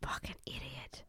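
unvoiced muttered aside; whispered insult. Real, not acted. Scorning the reality star, whispered insult. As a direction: breathe the insult under your breath.

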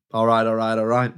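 lightly voiced laid-back movie star; Matthew McConaughey catchphrase. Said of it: "Matthew McConaughey".

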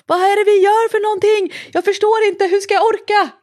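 high, bewildered cartoon whine; confused body voice. The body during training, high and bewildered. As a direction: play the lost, protesting body. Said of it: "när min kropp bara".

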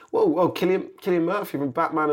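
high-pitched amazed realisation; acted-out starstruck surprise; retold astonishment. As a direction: replay the moment it sinks in. Retells learning of famous co-star.

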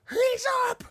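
shrill jeering shout from the crowd; mocking shout. Beachgoers jeering at a sunburnt man waking up, loud mocking shout. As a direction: yell it out to mock the sleeper. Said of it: "I just hear someone go like".

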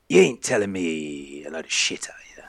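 breathy, voiceless threat; menacing whisper. Acted. Captain with drawn sword to the triton, menacing whisper. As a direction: whisper it as a warning.

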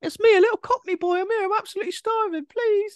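loud, very high fake cockney child; little boy's voice. Starving man begging at the door, fake little boy's voice. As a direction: beg in a squeaky put-on boy voice. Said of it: "a man doing a little boy's voice".

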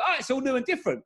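high, lightly excited Cockney tourist; a visitor marvelling at Japan; mock wonder. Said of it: "you go".

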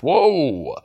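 high, drawn-out mock-awed whoa; hammed-up wonder; mock amazement. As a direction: play up being hugely impressed. Mock amazement at the film's feat.

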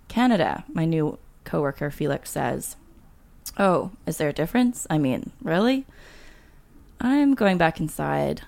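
measured read-aloud of a memoir; story narration. A narrator's reading. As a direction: read it like an author at a reading. Reads deleted chapter aloud.

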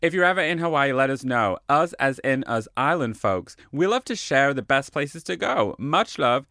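put-on mild American accent to sign off the card; a hint of an American accent; weird American accent. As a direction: read the letter in a light American accent. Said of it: "this weird American accent".

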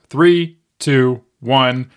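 slow, drawn-out three two one; slow countdown. Shown as a demonstration. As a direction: count down slowly for suspense. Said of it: "I'm gonna count down from three".

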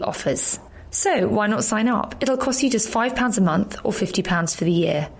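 podcast promo read; scripted ad read. Acted. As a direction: read out a members' club promo to listeners. Reads podcast club ad.

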